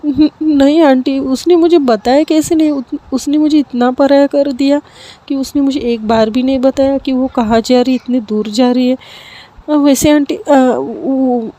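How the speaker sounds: put-on a girl hurt that her friend left without a word, crying; tearful. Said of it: "थोड़ी सी रोने लगती है".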